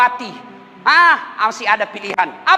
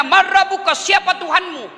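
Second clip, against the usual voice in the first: lightly acted questioning angel, pitched up; malaikat bertanya; 6 semitones higher than usual. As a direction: put a touch of stern interrogation into it. (malaikat menanyai dengan nada agak tinggi)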